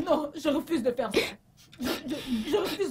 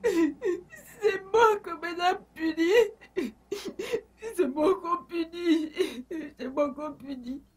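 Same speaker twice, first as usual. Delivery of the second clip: whining, tearful plea, drawn out and higher; mock sobbing; 4 semitones higher, slower than usual. Servant whimpers to madame about unfair punishment, crying. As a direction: blubber that it's always you who gets punished.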